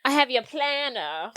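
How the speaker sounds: slow, imitated Asian accent. Friend mimics limo guy demanding the planner, Asian accent. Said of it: "do it in a, in an Asian".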